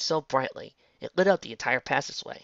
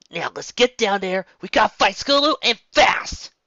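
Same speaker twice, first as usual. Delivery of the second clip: loud, high urgent call; rally them, push to hurry; 9 semitones higher, 10 dB louder than usual. Acted. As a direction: Rainbow urging the group to rush down. Rainbow urging the group on.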